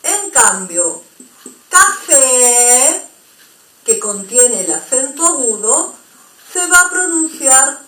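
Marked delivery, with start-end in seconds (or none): 1.7-3.1 café with a long open E. Shown as a demonstration. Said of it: "estoy exagerando".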